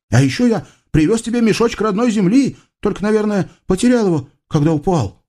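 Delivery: высокий торопливый голос юноши; тараторь высоко и наивно; восторженный юноша. Acted. Юноша рассказывает. (высокий быстрый голос Юсуфа)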